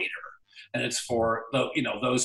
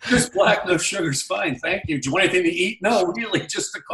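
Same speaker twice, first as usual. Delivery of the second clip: flustered; 6 semitones higher, 4 dB louder than usual. Retold or imitated. Flustered refusing fuss from crew.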